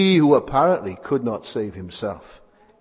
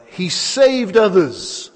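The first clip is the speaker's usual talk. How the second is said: mocking; 6 semitones higher, much slower than usual. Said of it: "they are being ironic".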